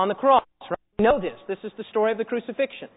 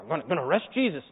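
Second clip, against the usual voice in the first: low, softer brute mumble; an ogre pushing through, set on his task; put-on low guard voice; big ogre; 8 semitones lower, 6 dB quieter, faster than usual. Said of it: "these big ogres".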